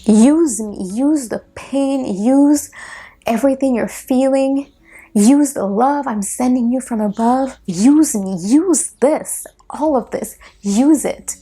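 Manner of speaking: urging, insistent, a touch lifted; inner voice. Retold or imitated. The voice she heard from him urging her, lightly voiced. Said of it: "I heard a voice that said".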